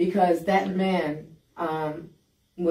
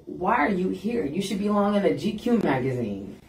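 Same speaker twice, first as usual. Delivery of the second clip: mildly sarcastic mock compliment; 3 semitones higher than usual. Inmate taunting the lieutenant about his looks, sarcastic. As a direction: needle him with feigned admiration.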